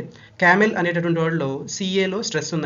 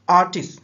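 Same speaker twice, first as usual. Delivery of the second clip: ఆర్టిస్ట్ with ఆర్ hit louder; stress on first syllable; 5 dB louder than usual. Shown as a demonstration. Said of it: "ఏ దగ్గర stress అండి".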